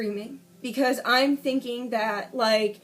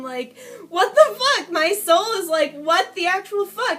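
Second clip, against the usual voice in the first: raised, stretched incredulous outburst; retold disbelief; 4 semitones higher, 4 dB louder than usual. She can't believe someone hurt her, retold disbelief. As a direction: replay the stunned protest, higher and louder.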